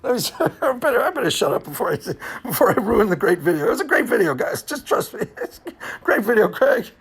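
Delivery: loud, laughing self-praise. Real, not acted. Telling viewers the video is great, loud and laughing. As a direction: boom it out while laughing.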